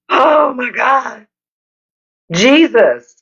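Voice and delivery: high, drawn-out "oh my God" through laughter; laughing wail. Real, not acted. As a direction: wail it slowly, cracking up. Laughing after own freeze bit.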